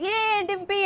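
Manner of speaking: imitating an eager, high-pitched hello; excited greeting. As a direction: call out a friend's name, mock-excited and high. Retells co-star's friendly greeting.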